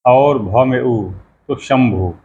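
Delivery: भ में उ said slowly, then शंभु; slow spelling of शंभु. Shown as a demonstration. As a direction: build शंभु from its letters. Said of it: "श के ऊपर बिंदी पड़ती है".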